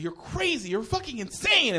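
high-pitched retold scolding, no real volume; mock yelling. Comic mimics his friend yelling at him, high mock yell. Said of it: "he's yelling at me about this thing".

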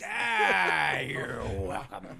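loud, slow smug "you're welcome"; gloating Vince McMahon voice. Acted. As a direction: boom it out like a smug boss.

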